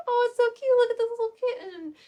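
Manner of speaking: high, delighted cooing; cooing over kitten. Retold or imitated. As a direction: gush over the cute kitten. Retells cooing over children's book.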